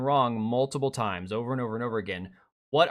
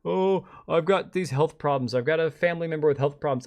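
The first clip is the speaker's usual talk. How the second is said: mock whining; 3 semitones higher, 4 dB louder than usual. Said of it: "bitching and bitching about how".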